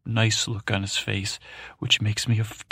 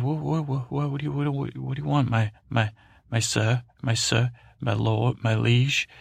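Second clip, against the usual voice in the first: nervous stammer; 4 semitones higher than usual. Acted. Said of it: "I said".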